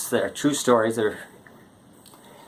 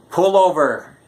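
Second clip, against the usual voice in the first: mock yell; 3 semitones higher, 4 dB louder, slower than usual. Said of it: "he yelled to her".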